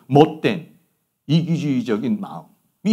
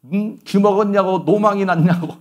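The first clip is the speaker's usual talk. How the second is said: higher, louder mock rant with a laugh; imitating children scolding old parents; mock angry child; 7 semitones higher, 6 dB louder than usual. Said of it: "하면서 화를 내는 게". (늙은 부모에게 짜증 내는 자식 흉내, 웃으며)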